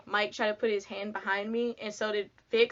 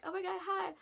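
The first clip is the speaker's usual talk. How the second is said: flustered hi; 9 semitones higher, 7 dB quieter than usual. Retold or imitated. Nervous greeting to band.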